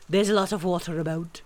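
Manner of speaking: weighty owl explanation; self-important owl voice; pompous Owl. A narrator's reading. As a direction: explain it as a learned, patient owl. Owl explaining to Christopher Robin.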